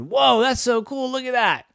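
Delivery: high-pitched wonder; amazed kid. Acted. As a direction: marvel like an excited child. Kids marvel at the gears.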